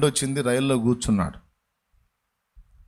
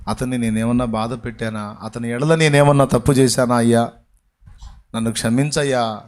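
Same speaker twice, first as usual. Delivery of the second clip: lowered prayerful plea; 7 semitones lower than usual. Retold or imitated. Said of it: "బండిలో కూర్చొని ఆలోచిస్తూ".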